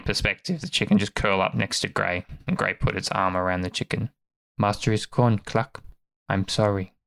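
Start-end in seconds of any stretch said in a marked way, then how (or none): 4.6-6.9 subdued, grieving pup; a touch of tearful sorrow, understated; near tears. Acted. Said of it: "I just made myself cry a little".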